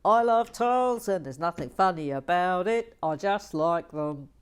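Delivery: loud earnest tile love; mock tile lover. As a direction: proclaim it like a proud tile fan. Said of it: "He loves tiles".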